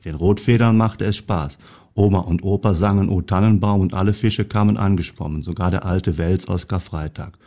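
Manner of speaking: lively storybook reading; reading a story to an audience; story narration. A narrator's reading. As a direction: read the tale aloud, animating each animal's lines. Reads a Christmas story aloud.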